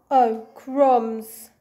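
startled snake. Acted. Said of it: "he said".

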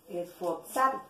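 Esforzarme broken up with weight on ZAR; stress on penultimate syllable. Shown as a demonstration. Teacher showing a grave word, stress on ZAR in Esforzarme. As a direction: lean on ZAR in Esforzarme, then add me. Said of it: "Como es grave".

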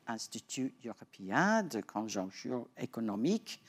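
an amateur French accent on the French title; bad French accent. Real, not acted. Host introducing a guest's former post, in a bad French accent. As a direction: say the French name with an English speaker's rough French accent. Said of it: "please forgive my bad French accent".

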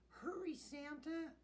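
high-pitched cat voice; high storybook kitty; meowing cat. A narrator's reading. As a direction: urge him on like a mewing cat. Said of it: "meowed his cat".

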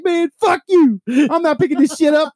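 very high, loud mock outrage; angry retold refusal. Removal guy refusing the sergeant's order, angry yelling. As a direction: act out a worker yelling that he's done.

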